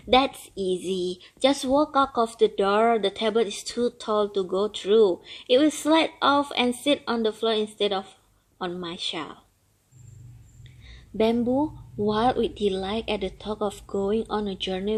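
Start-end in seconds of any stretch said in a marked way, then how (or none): 0.1-9.4 put-on an old turtle longing for freedom; grumbling old turtle. Turtle voiced in story.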